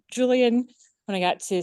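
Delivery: breathless after rushing in; winded, words cut short by breath. Real, not acted. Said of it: "sorry, I'm out of breath".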